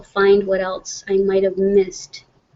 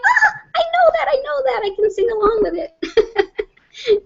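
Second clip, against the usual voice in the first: very high, giddy mock squeal; excited recognition; 14 semitones higher than usual. Woman re-enacting her reaction to a recycled commercial, giddy squeal. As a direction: squeal like a thrilled fan, breaking into a laugh. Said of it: "But yeah, I'm like".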